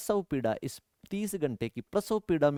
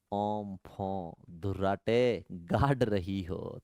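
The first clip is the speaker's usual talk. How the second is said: poem recital; 4 dB quieter, slower than usual. Acted. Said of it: "अच्छी एक कविता है".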